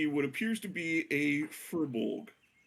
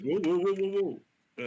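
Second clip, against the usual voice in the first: loud startled whoa; alarmed whoa; 7 semitones higher, 5 dB louder than usual. Acted. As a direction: stop someone falling, loudly. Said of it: "he kinda says".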